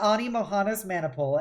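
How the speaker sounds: plain reading voice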